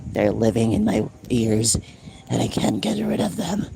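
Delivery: mildly voiced demon in my ears. Streamer hamming up a possessed voice. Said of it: "I can do that voice".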